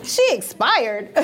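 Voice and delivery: chuckling through the words; laughing. Real, not acted. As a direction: say it amused, slowly. Laughing at the phrase.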